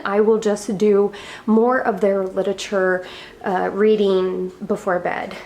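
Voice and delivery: slightly winded while talking; out of breath. Real, not acted. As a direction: speak a little short of breath. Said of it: "I'm sorry if I'm out of breath".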